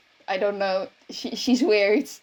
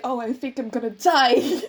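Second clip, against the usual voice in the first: laughing fake dread. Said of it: "being like".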